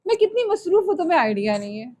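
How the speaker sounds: mock half-listening, dismissive and hurried; distracted impatient listener. Teacher mimics herself half-listening to people, impatient. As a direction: brush them off while pretending to listen. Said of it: "मैं लोगों की बात ऐसे सुनती हूँ".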